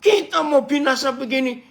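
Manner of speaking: high, scolding yell; acted indignant shout, pitched high; rough, rude waking. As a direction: berate a sleeper in alarm. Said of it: "kalau yang lebih kasar bilang".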